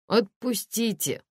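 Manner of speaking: a plaintive, pleading plea; жалобно. A narrator's reading. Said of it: "попросил злодей жалобно". (жалобная мольба)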